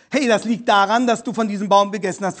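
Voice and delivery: God catches Adam out quickly and firmly; God confronting Adam. Acted. Gott stellt Adam zur Rede, eindringlich und schnell.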